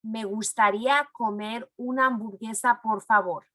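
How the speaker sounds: the whole phrase in one smooth run; flowing, at a natural pace. Shown as a demonstration. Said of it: "Now we're gonna say that a little faster".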